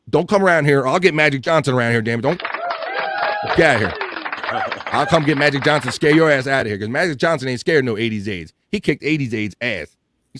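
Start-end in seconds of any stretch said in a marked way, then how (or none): 0.1-8.5 playful blustering warning; mock threat. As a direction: chase off an intruder in jest. Playfully threatens to chase AIDS away.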